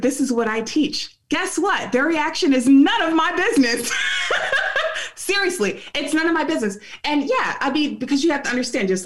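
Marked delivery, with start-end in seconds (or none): 4.0-5.1 airy high giggle; breathy high laugh. Real, not acted. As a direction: laugh it off lightly. Laughing off others' reactions.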